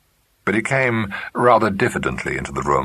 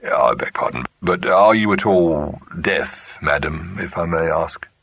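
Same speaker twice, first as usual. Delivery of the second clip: hesitant, slow and careful; tentative. Acted. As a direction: ask it cautiously, unsure. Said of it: "added tentatively".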